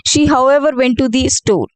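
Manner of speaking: however tucked right after She, set off by short pauses; incorrect example. Shown as a demonstration. Teacher reads the wrong placement to the class. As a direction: read She, however, went to the store as the wrong model.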